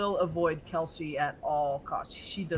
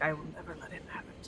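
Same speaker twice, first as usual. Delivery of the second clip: muttering; 9 dB quieter, much faster than usual. Acted. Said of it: "you hear her muttering things like".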